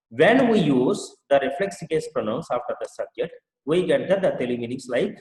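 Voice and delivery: very slow, word by word reading; slow teacher dictation. Shown as a demonstration. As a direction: read it out slowly for students to copy. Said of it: "teacher reads rule slowly".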